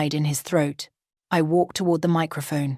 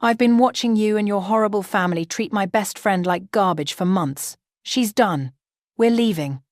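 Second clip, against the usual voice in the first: angry defence; 3 semitones higher than usual. Acted. Friend defends bride.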